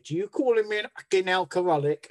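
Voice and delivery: retold angry comeback; indignant retort. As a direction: fire it back, offended.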